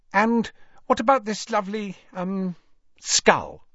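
high, hesitant gushing, dropping on the last word; gush, then falter for a word; falsely cheery. A narrator's reading. Hermione browsing Borgin's wares, falsely cheery.

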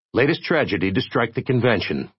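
measured, solemn news-bulletin read; solemn announcer. Acted. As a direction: deliver it like grave breaking news. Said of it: "a solemn announcer was saying".

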